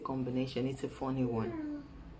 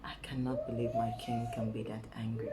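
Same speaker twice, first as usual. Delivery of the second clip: lightly acted low sweet talk; coaxing; 4 semitones lower than usual. Woman showing how she calms her angry lion, coaxing. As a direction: gently pretend to placate a partner. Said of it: "You see how I go?".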